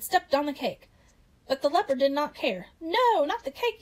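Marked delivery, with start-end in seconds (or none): 2.8-3.8 high, drawn-out protest; acted yell. A narrator's reading. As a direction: wail it high and slow in mock dismay. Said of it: "yelled Pumpkin".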